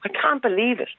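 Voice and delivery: real upset, on the verge of crying; near tears. Real, not acted. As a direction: hold back tears in disbelief. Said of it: "I'm going to start crying again".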